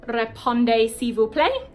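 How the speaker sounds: British-sounding attempt at French; terrible French accent. Shown as a demonstration. Teacher giving the full sentence behind RSVP, terrible French accent. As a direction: say the French phrase in an amateur French accent. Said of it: "This is my terrible French accent".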